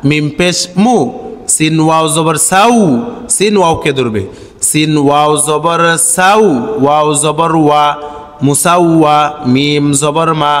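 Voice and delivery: slow, measured spelling chant; correct pronunciation drill. Shown as a demonstration. Teacher shows learners the correct reading, chanted evenly. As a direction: recite syllable by syllable, holding long sounds.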